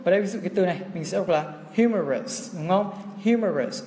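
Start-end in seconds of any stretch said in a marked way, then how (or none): 1.8-2.6 "humorous" stressed on its first syllable. Shown as a demonstration. Teacher reads out humorous for students, stress on the first syllable. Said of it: "trọng âm rơi vào đầu này". 3.3-3.8 "Humorous" stressed on its first syllable. Shown as a demonstration. Teacher repeats Humorous for students, stress on the first syllable. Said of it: "trọng âm rơi vào đầu này".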